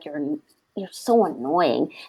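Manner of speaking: low, soft mutter under the breath. Retelling what gets said about a parent: imitating muttering under breath. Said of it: "I just say it under my breath".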